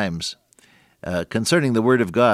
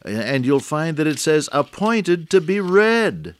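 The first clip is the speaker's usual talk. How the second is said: lightly voiced whimsical teasing question, higher; whimsical old friend; 7 semitones higher, 3 dB louder than usual. Preacher retelling his friend's playful question to radio listeners, whimsical and higher. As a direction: tease the congregation with a playful riddle. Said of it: "And then he would say".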